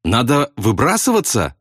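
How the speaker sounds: mild nervy howl, voice rising; nervous wail. A narrator's reading. Rattled pilot answers about bailing out, nervous wail. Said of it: "нервозно взвыл Кроха Сэмпсон".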